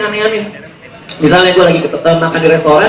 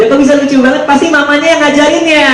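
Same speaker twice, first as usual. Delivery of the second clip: mother imitated; 6 semitones higher than usual. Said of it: "itu nyokap gue ngomong".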